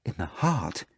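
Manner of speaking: asking In the heart? in disbelief; shocked exclaiming. Acted. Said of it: "exclaimed Margarita".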